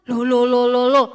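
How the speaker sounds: acted puzzled alarm, voice dropped and pushed; startled mother. A narrator's reading. Mother in the living room hears crying, startled.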